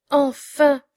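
a bright glad Enfin; joyful thought. A narrator's reading. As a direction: sigh of relief said aloud. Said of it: "pensait le pauvre homme". (soulagement joyeux)

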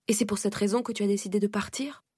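a light, scornful question; contemptuous. Acted. Aunt scorning the niece's reason for running, lightly contemptuous. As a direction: toss the question down with mild disdain. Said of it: "d'un ton méprisant".

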